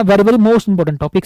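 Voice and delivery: slowed right down to stress "very, very most important"; teacher flagging a key topic, slow and emphatic. Shown as a demonstration. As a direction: lean on "very, very" to mark how important it is.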